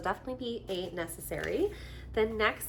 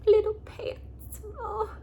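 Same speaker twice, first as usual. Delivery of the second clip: cooing; 13 semitones higher, 3 dB louder, slower than usual. Real, not acted. Cooing at tiny pants.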